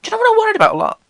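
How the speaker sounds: high excited buildup. Real, not acted. Building to a confession.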